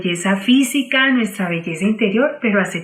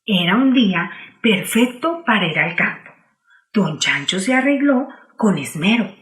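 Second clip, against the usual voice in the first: put-on children's story narration. A narrator's reading. Teacher reading a picture book to children, storytelling voice. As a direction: clear storybook reading for kids.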